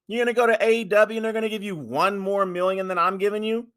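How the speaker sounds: high, loud mocking shout at Roman; high-pitched angry boss voice; mock Vince yelling. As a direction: yell it back like an outraged boss. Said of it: "I'm like".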